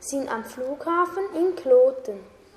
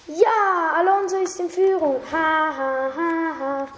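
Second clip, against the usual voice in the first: gleeful; 4 semitones higher, 3 dB louder than usual. Acted. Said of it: "sagt Jake".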